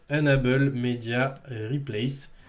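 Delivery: slow English name in a French accent. Real, not acted. Presenter naming the extension to add, French accent. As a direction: sound out the English slowly, French-style. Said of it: "Quel bel accent anglais".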